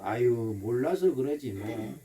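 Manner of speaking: low, soft, slow sigh of understanding; softly soothing, unbothered; forgiving intonation. Shown as a demonstration. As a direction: let it go gently with a drawn-out "아유". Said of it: "이 말의 억양이 참 중요해".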